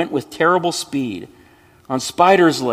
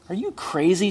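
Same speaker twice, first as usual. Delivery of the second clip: sneering; 6 semitones higher than usual. Acted. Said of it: "sneered the other".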